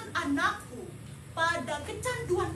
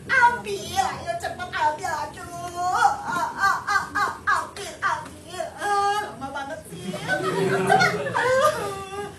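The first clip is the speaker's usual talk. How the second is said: louder, impatient cheering on; urgent urging; 5 dB louder, slower than usual. Acted. Mother urging her child to catch, loud and impatient. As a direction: hurry him up.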